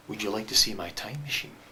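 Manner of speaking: low, grave, confidential question; very serious stranger. Acted. Stranger checks no one is watching, then asks very seriously. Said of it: "very seriously".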